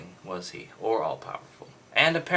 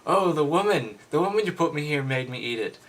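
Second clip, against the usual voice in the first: higher, faster and louder, hammed-up whining excuse; mock blaming Adam; 5 semitones higher, 5 dB louder than usual. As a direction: blame the woman like a caught kid. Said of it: "look at the blame game here".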